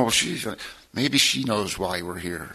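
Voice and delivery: soft, slow thinking aloud with a chuckle; to himself. Retold or imitated. Confused father thinking aloud beside his sleeping daughter, soft and slow. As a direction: mull it over under your breath.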